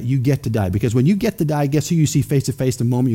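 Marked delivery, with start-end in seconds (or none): 0.0-0.7 quieter "You get to die" leaning on "get"; "get" held, "to die" dropping away; stress on get. Shown as a demonstration. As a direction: press "get" softly and firmly. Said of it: "And that's how I say that".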